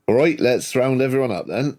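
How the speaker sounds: a hint of a country accent on a casual round-up order; rural dictator voice. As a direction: say it as a dictator who sounds like a farmer. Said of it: "like a dictator going".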